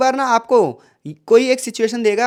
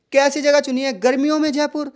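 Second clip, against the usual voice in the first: raised pitch weighting गर्मियों में; stress on garmiyon mein; 4 semitones higher than usual. Shown as a demonstration. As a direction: punch गर्मियों में in disbelief. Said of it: "तो जो गर्मियों में उसने बोला".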